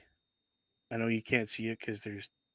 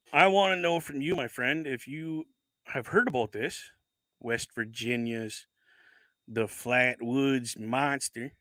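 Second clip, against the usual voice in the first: put-on Southern accent. Calling out a West Virginia friend in a put-on Southern accent. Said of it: "My best Southern accent".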